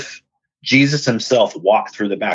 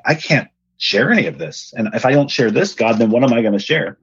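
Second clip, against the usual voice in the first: mildly panicked retelling, pitched up; a touch of rising desperation. Retold or imitated. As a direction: replay a moment of panic, lightly. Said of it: "I'm panicked".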